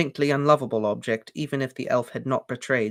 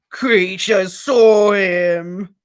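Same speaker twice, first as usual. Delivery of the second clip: slow, loud, tearful elf gasp; 7 semitones higher, 8 dB louder, much slower than usual. A narrator's reading. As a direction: sob it out, gasping. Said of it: "gasped the elf".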